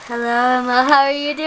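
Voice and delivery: helium voice. Real, not acted. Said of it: "I like the voices".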